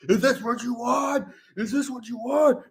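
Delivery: high, strained mock scream; imitated kid meltdown. Kid raging after mom takes his account, mock meltdown. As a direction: scream it in hammed-up desperation. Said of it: "when his mom takes his World of Warcraft account away".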